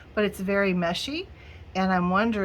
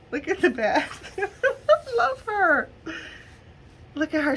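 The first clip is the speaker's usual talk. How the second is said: squealing delight; 10 semitones higher than usual. Real, not acted. Gushing to viewers over a bat figure, squealing delight.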